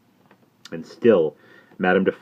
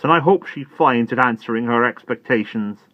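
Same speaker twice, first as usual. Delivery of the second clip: distracted Miss Pross; 5 semitones higher, 6 dB louder than usual. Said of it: "cried the distracted Miss Pross".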